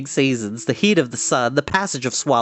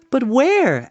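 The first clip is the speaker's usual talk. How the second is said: higher, lightly voiced young pig; questioning piglet; 10 semitones higher, 3 dB louder than usual. A narrator's reading. Wilbur asking the little spider, lightly voiced high. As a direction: lift the voice into a worried question.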